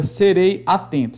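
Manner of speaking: "serei atento" with ei and a sounded apart; don't merge "serei" into "atento"; distinct break in "serei atento"; vowels kept separate. Shown as a demonstration. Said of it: "não se misturam numa única emissão de voz".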